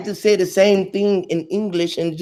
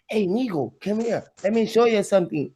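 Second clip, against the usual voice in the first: softer put-on Hispanic accent; lightly faked Spanish accent; mock Spanish accent; 4 dB quieter than usual. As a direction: coax softly in mock Spanish-accented English. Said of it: "if you talk to a Spanish".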